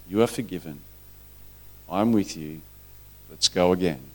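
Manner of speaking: low, soft and tender; gentle reassurance. Acted. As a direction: reassure softly, offering forgiveness. Voices Christ forgiving and reassuring.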